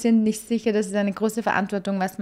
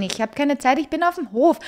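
voicing Enola; 5 semitones higher than usual. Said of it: "Wir sagen so Dean".

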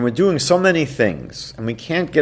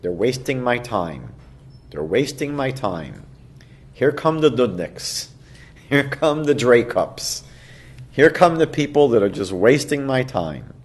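softer, muttered complaint to yourself; impatient inner grumble; 5 dB quieter than usual. Retold or imitated. Listener who feels their time wasted, soft grumbling. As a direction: grumble under your breath about time wasted. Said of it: "we have the impulse to say".

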